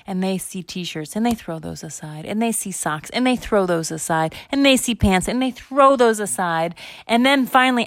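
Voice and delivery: storyteller crescendo, climbing step by step; building frantic narration. A narrator's reading. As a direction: build each repeated toss toward a climax. Frantic search builds to climax.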